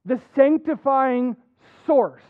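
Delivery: preacher stressing the source of holiness for the flock, with weight; emphasis on source. Real, not acted. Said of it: "I'm gonna emphasize it".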